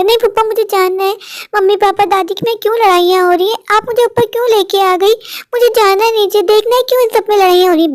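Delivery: lightly voiced young boy, insistent; a small boy pestering his father; light child voice, pleading to know; curious child. Child begs to know about fight.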